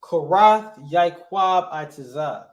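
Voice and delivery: Korath first, then Yaakov, then Itazah, slow and firm; correct word order. Shown as a demonstration. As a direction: slowly model the verb-first order. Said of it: "I would say it like this".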